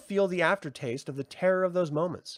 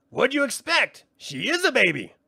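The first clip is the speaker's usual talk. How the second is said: high, loud, snippy sprite; contemptuous brownie jab; scornful brownie; 10 semitones higher, 6 dB louder than usual. Acted. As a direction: spit the insult. Frangine scolds Rule.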